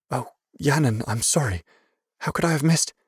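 high, hushed mother's dismay; startled apology. A narrator's reading. Mother startled by her son's hands, apologising.

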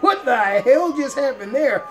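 high, laughing, what-the-hell; laughing disbelief. Real, not acted. Gamer reacts to a sudden crash, laughing disbelief. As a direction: blurt it out through laughter.

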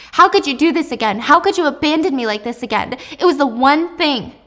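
loud, hurt daughter confronting her mother; tearful daughter shouting at her mother; angry confrontation. Acted. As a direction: raise your voice at the mom who betrayed you. Acted confrontation with mom.

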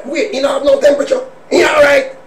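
mock concern. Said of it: "People say".

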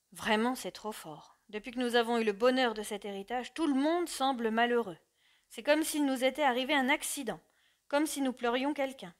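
father baffled and upset, pleading; dismayed. Acted. Father asks why the family seems unhappy, dismayed. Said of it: "et d'un air désolé".

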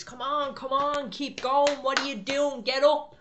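high, loud barked orders at recruits; drill sergeant shouting. Retold or imitated. Sergeant shouting in their face, loud and high. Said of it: "he's shouting in their face".

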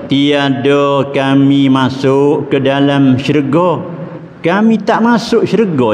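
put-on children's plea. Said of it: "dia kata".

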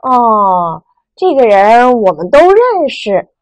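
哦 level and calm, 认识 stated plainly; flat statement tone. Shown as a demonstration. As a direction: say 哦 evenly, just stating. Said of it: "陈述的语气". (哦，平直陈述的语气)

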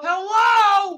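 high, loud monster hello. Acted. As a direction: shout it like a muppet. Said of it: "crazy monster".

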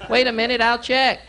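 high, prim dad asking at the counter; squeaky embarrassing dad; mock polite dad voice; dorky dad voice. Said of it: "acting like his dad".

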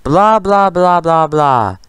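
sing-song dismissive blah-blah; teasing, dismissive babble; mocking blah. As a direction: brush him off mockingly. Mocking the rival.

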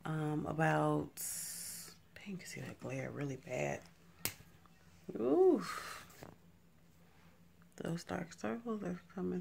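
soft late-night whisper; hushed, breathy near-whisper. Real, not acted.

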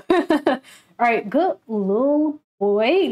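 cooing. Real, not acted. Cooing at member.

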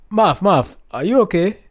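high, startled concern; alarmed. Retold or imitated. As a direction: voice a shocked cousin. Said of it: "gasps and says".

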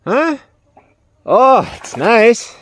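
slow high cooing to a pet; squeaky praising a dog. Real, not acted. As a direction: coo slowly to please the dog. Cooing to the dogs.

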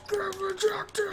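high, slow mocking taunt; taunting, laughing. Real, not acted. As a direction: rub it in with a laugh. Taunting a blocked shot.

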